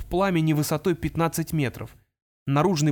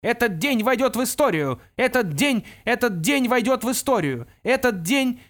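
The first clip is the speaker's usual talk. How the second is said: higher, looping speaker-box voice; metallic toy voice; 8 semitones higher than usual. Acted. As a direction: sound like a broken toy speaker. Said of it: "металлический голос".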